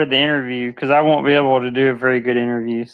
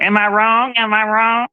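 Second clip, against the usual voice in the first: imitating a diva; 6 semitones higher than usual. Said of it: "I'm picturing you, like, moving your neck around".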